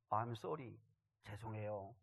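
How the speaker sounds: soft, low, falling away; meek apology, imitated. Son in the car apologizes to his father again, meek and quiet. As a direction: quote a child's small, subdued apology. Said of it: "아이가 또 두 마디 하더라는".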